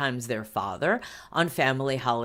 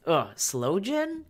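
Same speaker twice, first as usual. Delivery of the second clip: disgust; 6 semitones higher, slower than usual. Real, not acted. Disgusted at sloe gin.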